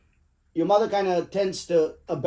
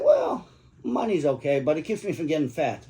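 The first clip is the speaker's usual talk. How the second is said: deadpan joke. Retold or imitated. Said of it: "I said".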